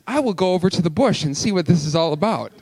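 brisk, mildly dignified quote; lightly mock a composed, sensible remark; intelligent-sounding. Moses recasting his own story, mildly dignified. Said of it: "doesn't sound as intelligent as".

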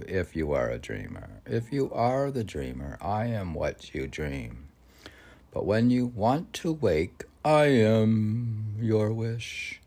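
measured poetic reading with swelling lines; poem recitation. Acted. Host reciting a Rilke poem to listeners, lyrical recitation. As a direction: read it as if the verse rises by itself. Rereads stanza slowly.

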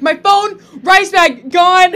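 high, loud mock wail, words tumbling out; imitating a tearful wail. Roommate imitates her tearful friend's panicked high wail. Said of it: "tears in her eyes".

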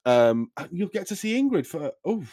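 cheery dad voice. Acted. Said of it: "he goes".

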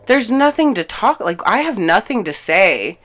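loud, emphatic shutting-down; exasperated refusal. Retold or imitated. Refusing his plea to talk about it, exasperated. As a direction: retell refusing to discuss it, hitting "nothing". Retold quarrel.

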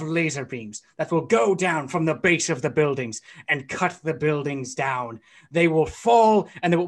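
lightly hammed-up villain monologue; megalomaniac rant. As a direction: gloat like a cartoon supervillain. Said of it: "come up with a thirty-second long villain monologue".

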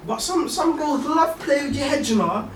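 high-pitched giggly talk; can't stop giggling mid-sentence; laughing. Real, not acted. Giggling about girls.

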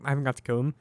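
words pushed out around a burp. Real, not acted. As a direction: talk through a burp. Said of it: "Sorry, I'm burping".

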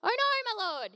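high anguished cry; cried out. A narrator's reading. Servant crying out to Elisha in dismay. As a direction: cry out in dismay over the lost axe. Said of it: "he cried out".

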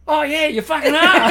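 high, loud, laughing through the words; laughing quote. Retold or imitated. Guards admit he is awol, laughing loudly. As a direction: crack up mid-line.

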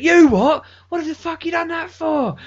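high, loud mock outrage; going mental. Woman berating site manager for calling police, imitated furious shout. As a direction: imitate a woman shrieking in disbelief. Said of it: "She went mental".

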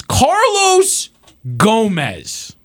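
Carlos jumps up high, Gomez drops flat; sarcastic, incredulous repeat of Carlos Gomez; mocking disbelief. Real, not acted. Host repeats name mockingly.

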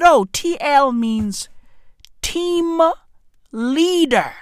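straight-faced answer with a pause before the reveal; measured, matter-of-fact delivery; deadpan. Retold or imitated. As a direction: imitate a wife answering dead serious. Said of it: "dead in the eyes with a straight face".

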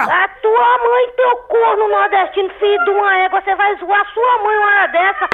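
angry high-pitched tirade, drawn-out start; furious woman. Real, not acted. Woman cursing a prank caller who taunts her, furious. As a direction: fire back insults, pitch up high. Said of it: "que mulher braba".

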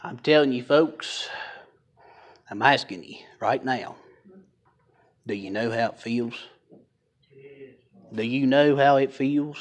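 soft, wheezy and breathless; wheezy voice, fighting a cold. Real, not acted. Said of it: "I can't get my breath".

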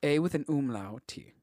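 slowly spelling out each letter; letter by letter, deliberate. Shown as a demonstration. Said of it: "Spell that for me".

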